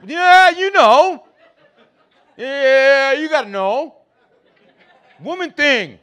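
high, drawn-out strained insistence; agitated dad. Retold or imitated. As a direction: stretch it out, worked up and embarrassed. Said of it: "Dad, calm down".

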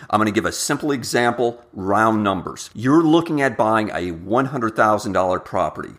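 normal talking voice

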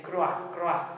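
"grúa" as one syllable, "grwa"; mispronounced "grúa" with no stress on the u; unaccented version. Shown as a demonstration. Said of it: "If the accent wasn't there".

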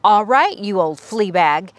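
lightly voiced mouse officer barking orders; a touch of tough little mouse; squeaky commander. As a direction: commander confronts the giant dog. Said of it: "squeaked the Big Cheese".

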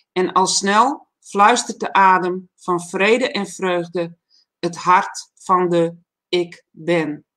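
measured, solemn reading of an inspirational poem; poem recital. Acted. Reading his poem to the livestream audience, solemn recital. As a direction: let each refrain line settle before the next. Reads a long poem aloud.

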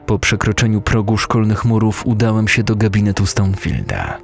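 ordinary delivery, nothing marked

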